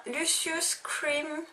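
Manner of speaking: slow English words in a heavy French accent; English said awkwardly, French-accented; bad English accent. Real, not acted. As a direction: read the English product name slowly with a French accent. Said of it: "mon accent anglais, euh, complètement affreux".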